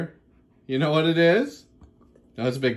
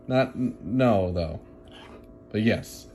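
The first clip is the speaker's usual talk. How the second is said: dog voice; 11 semitones lower, 6 dB quieter, slower than usual. Pretend. Dog voice continued.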